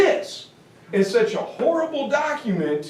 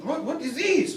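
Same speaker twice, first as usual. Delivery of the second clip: shocked sputter; 5 semitones higher, 6 dB quieter than usual. Retold or imitated. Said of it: "they're like".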